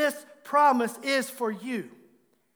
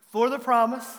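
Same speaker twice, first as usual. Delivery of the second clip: a bit louder, firmer on promise; stronger recital; 4 dB louder than usual. Shown as a demonstration. Pastor urging the church to say it louder, firm. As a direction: say it with more conviction this time. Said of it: "That's better".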